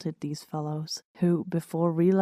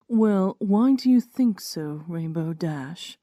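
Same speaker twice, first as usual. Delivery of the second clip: curious dare; slower than usual. Acted. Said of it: "a hint of curiosity and at least as much of a dare".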